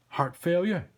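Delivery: incredulous detective; exasperated cop Sam. Acted. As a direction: ask it sharply as the boss cop.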